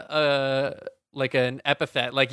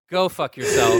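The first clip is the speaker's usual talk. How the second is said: loud and higher, spitting the curse; angry outburst; 5 semitones higher, 5 dB louder than usual. Real, not acted. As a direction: blast him with it. Cursing out Larry Sanger.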